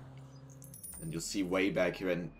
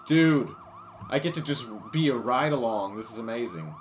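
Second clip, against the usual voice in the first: louder, eager excitement; thrilled; 5 dB louder than usual. Real, not acted. Thrilled ride-along.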